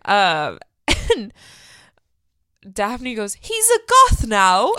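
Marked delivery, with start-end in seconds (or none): 3.4-4.7 laughing shout, high and slow. Retold or imitated. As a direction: burst out laughing through the line. Daphne quote, laughing shout.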